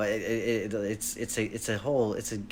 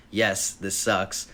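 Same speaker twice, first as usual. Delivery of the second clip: dog voice; 3 semitones lower, much slower than usual. Retold or imitated. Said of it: "in her dog voice".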